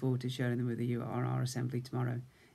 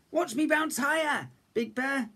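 much higher eager little bear; excited cub; 12 semitones higher than usual. A narrator's reading. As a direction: show off to Big Bear. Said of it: "Little Bear said".

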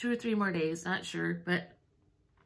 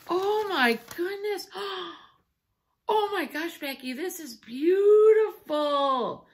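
high, drawn-out tearful awe; tearing up; 6 semitones higher, 4 dB louder, slower than usual. Real, not acted. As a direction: gasp and gush, moved to tears. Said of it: "I'm still tearing up".

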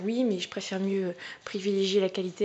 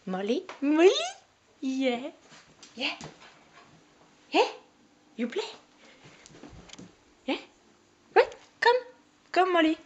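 put-on Irish accent; 8 semitones higher, 7 dB louder than usual. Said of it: "peut-être que je fais pas ce accent irlandais".

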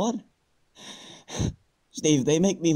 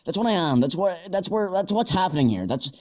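scared, slurring his words; slurred, shaky speech from fear; 4 semitones higher than usual. Real, not acted. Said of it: "I'm fucking slurring on my words".

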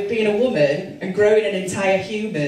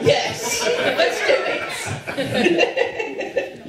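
eager yes; 12 semitones higher, much slower than usual. Pretend. Eager mock answer, laughing.

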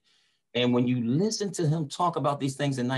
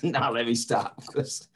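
lightly put-on North Philly tough talk; a hint of a Philadelphian brushing off a fight; Philly street voice; 2 semitones higher than usual. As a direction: toss it off like a Philly kid squaring up. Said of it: "you know how Philadelphians is".

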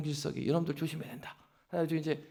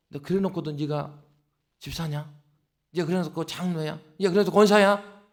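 Satan's taunting. Acted. Preacher voicing Satan taunting deacons and elders, mocking. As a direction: sneer at the believer like a mild tempter. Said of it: "옆에서 막 속삭인다고요".

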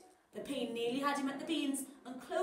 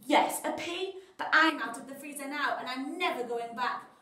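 villain boast; 6 dB louder than usual. Acted.

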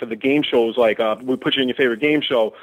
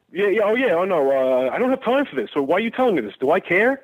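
whiny caller impression; 5 semitones higher than usual. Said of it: "little whining little jackass".

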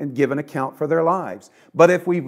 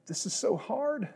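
mild lament; 7 semitones higher, 8 dB quieter than usual. Retold or imitated. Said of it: "it's okay to go to God and say".

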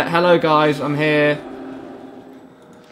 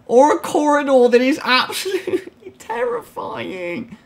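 nervous laugh; 11 semitones higher than usual. Real, not acted. Scared laugh at corridor.

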